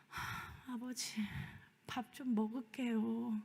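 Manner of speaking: soft, drained reply; weary sigh. Retold or imitated. Tired daughter quietly answering her nagging father. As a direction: sigh it out, worn down. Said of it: "그냥".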